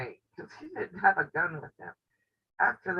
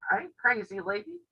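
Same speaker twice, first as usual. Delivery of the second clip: a higher, sassy voice for the dog; imagined dog talking back; 5 semitones higher than usual. Retold or imitated. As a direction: lightly voice the dog refusing to go near the snake. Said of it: "The dog's looked at me like".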